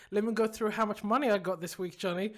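teasing brag, hammering each point; mock gloating. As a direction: playfully lord it over your co-host. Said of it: "I would hold it over your head".

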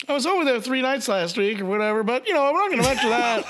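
teasing imitation of a friend dodging the question; mimicking cohost. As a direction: play the cagey friend, lightly mocking. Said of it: "I love how when I ask you".

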